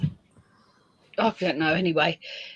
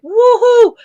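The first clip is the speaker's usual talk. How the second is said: high, loud whoop; mock elation; 14 semitones higher, 7 dB louder than usual. Streamer waking to new subscribers, mock elated whoop. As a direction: whoop as if celebrating a win.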